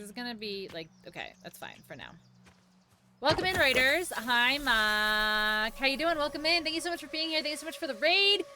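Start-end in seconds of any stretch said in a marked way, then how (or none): 3.2-8.4 loud, high, gushing hello; excited welcome. Real, not acted. Streamer thanking raiders as they arrive, excited welcome. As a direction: greet the arriving crowd at a raised pitch.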